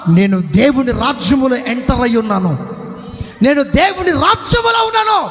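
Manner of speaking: fiery sermon declaration; preaching at full force. Acted. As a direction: proclaim it over the crowd.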